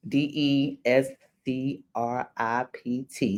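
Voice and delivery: careful slow spelling of Descript. Shown as a demonstration. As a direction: spell it out slowly, letter by letter. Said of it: "That's better, right?".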